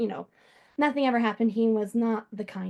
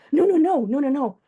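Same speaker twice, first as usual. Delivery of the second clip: louder quick string of no's; firm, louder no no no; emphatic denial; 5 semitones higher, 8 dB louder than usual. Real, not acted. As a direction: cut him off, correcting him. Correcting the medium eagerly.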